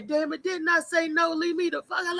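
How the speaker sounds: fed-up caller telling a saleswoman off; indignant outburst. Retold or imitated. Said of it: "get indignant with her and say".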